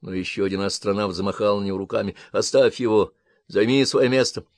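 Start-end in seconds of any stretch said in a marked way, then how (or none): 2.3-4.5 shouting. Acted. Astronaut waves Jack off.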